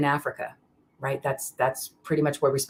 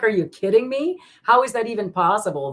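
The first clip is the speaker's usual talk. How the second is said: higher, a bit louder amazed disbelief; retold amazement; 8 semitones higher, 4 dB louder than usual. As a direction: relive the stunned excitement. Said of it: "'cause I get excited".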